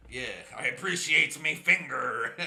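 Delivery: giggling self-praise; laughing repeat. Real, not acted. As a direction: say it again cracking up.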